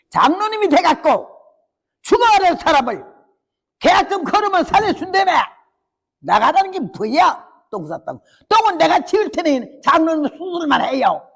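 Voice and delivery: 높고 세게 따지듯; 의사에게 대드는 기세로 몰아붙여; 항의하는 권사. Retold or imitated. (의사에게 따지는 권사의 높은 항의조)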